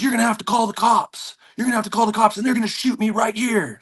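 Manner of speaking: high, agitated pleading shout; irate stranger. Retold or imitated. Man outside the gym yelling at the instructor, irate. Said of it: "just so irate".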